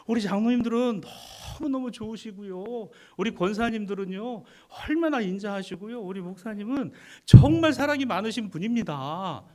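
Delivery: high, loud and eager, praising the church; eager praise. Shown as a demonstration. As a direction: cheer the church on with gusto. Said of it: "아멘은 국 끓여 먹고 오셨습니까?".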